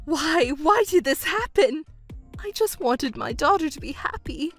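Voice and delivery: wounded disbelief, pitch climbing at the end; hurt, bewildered mother; distraught. Acted. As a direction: protest as if betrayed by everyone. Mother learns everyone deceived her.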